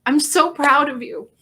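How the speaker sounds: near tears, pushing the pride out; tearful pride. Real, not acted. To a friend who saved her, emotional and close to crying. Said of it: "I'm gonna try not to cry".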